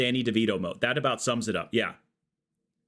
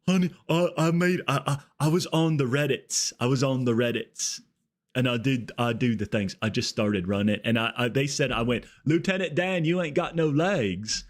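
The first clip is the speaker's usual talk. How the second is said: giddy bragging; 2 semitones higher than usual. Pretend. Bragging to his wife about Reddit, giddy and stammering. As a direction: gush it out like a proud kid.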